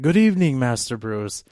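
lightly put-on British accent, lifted opening; a hint of British accent, pitch dropping on the name; British butler accent. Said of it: "in that very British ad-, accent".

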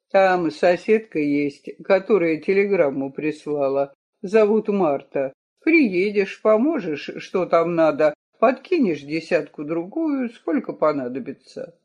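calm, soothing father; smooth things over gently; conciliatory. Acted. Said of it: "Квашнин примирительно сказал".

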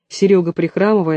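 ordinary delivery

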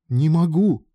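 loud, high-pitched refusal; exclaimed. A narrator's reading. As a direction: cry it out in protest. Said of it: "воскликнула мадам".

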